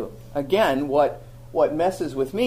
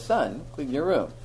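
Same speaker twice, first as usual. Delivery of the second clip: quietly, no need to raise it; a calm father, quiet and steady; 2 semitones lower, 5 dB quieter than usual. Retold or imitated. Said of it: "a very calm voice says".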